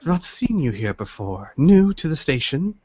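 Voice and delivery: lightly voiced old tea master; measured, polite elderly host; courteous old tea seller.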